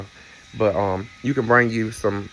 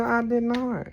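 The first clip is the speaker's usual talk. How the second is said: mock deadpan; 11 semitones higher, slower than usual. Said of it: "I said".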